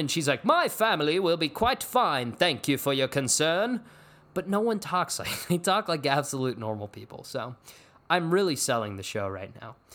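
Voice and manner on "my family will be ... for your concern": put-on raised, stagey, old-fashioned classical theatre declaiming. Imagining how a tv drama's characters talk, in a shakespearean delivery. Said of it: "they're just so Shakespearean".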